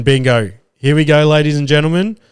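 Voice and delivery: punchy showman's reveal; excited announcement. Real, not acted. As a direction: build it up for the big reveal. Cops finally arrest the bloke.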